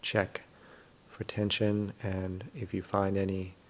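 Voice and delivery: calm, unhurried meditation guidance with long pauses; guided meditation. Real, not acted. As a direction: gently guide listeners through settling the body.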